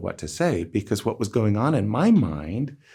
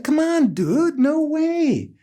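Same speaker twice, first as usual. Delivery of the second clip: retold polite refusal; 4 dB louder, slower than usual.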